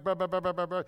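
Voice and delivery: mock foreign-sounding babble; imitated gibberish. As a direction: rattle off blahs as meaningless speech. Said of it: "to them, you sound like".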